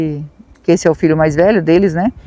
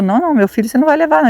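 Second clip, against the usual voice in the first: rushed, pitch raised, talk it out in a panic; quick pleading no, a notch higher; urgent fast protest; 6 semitones higher, much faster than usual. Retold or imitated. Father refusing the devil his son, urgent fast protest.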